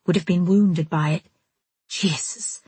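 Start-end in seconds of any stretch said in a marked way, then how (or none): 1.9-2.6 quiet muttered oath under breath. A narrator's reading. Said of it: "Harrison muttered".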